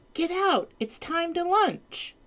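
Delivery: high, bossy queen call. Acted. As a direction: order him out regally. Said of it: "cried the queen".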